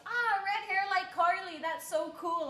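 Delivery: high, loud burst of delight; re-enacted excited reaction. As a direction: gush with a thrilled "ah". Voices her delighted first thought.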